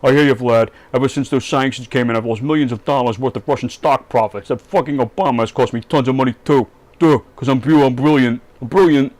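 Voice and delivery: a loose, lightly voiced Trump brag; crappy Trump imitation. Comedian mocks Trump bragging to Putin on the phone, lightly voiced. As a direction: play Trump bragging, only half in character. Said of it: "sorry about my crappy Donald Trump imitation".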